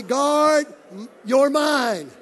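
loud, punched call to repeat; emphatic exhortation. Real, not acted. Preacher leading congregation in a saying, loud and emphatic. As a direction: belt it out for the crowd to echo.

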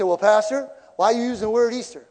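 a nosy churchgoer challenging; mock congregant. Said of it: "You say".

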